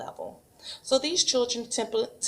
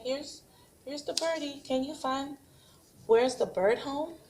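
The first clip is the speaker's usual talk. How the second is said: put-on 1 child-directed sing-song; 6 semitones higher than usual. Shown as a demonstration. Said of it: "have your child say".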